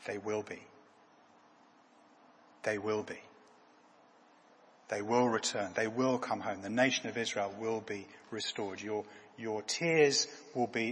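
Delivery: low, soft, measured promise; quiet reassurance. Retold or imitated. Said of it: "reassures her and says".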